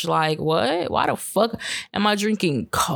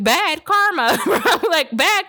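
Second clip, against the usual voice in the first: high, loud scolding through laughter; laughing scold; 12 semitones higher, 4 dB louder, slower than usual. Retold or imitated. Owner scolding her naughty cat Karma, laughing loudly. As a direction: scold the cat while cracking up. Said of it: "And I'd be like".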